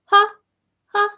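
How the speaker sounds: short light staccato ha; a quick little bounce of ha. Shown as a demonstration. Coach showing the right quick little ha. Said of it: "that quick little".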